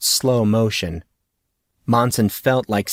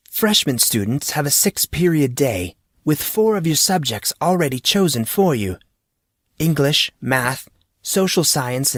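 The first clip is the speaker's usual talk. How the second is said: lightly raised, kindly teacher; friendly teacher voice; 4 semitones higher than usual. Acted. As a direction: speak as an amused teacher. Teacher character dialogue.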